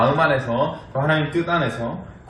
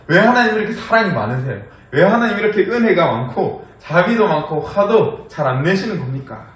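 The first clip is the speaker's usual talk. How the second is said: higher, louder indignant whine at God; mock angry complaint; 4 semitones higher, 3 dB louder than usual. Jonah griping at God for being too merciful, mock angry. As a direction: scold God like a sulking prophet. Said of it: "요나는 화를 내면서".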